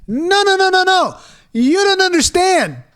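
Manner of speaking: high, whiny mock no no no; mocking developer. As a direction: mimic a condescending dev. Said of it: "why do you keep going".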